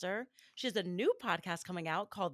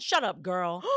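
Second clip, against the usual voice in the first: curt brush-off; dismissive boy; 8 dB louder, slower than usual. Retold or imitated. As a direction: snap it like a rude kid. Boy rejecting her.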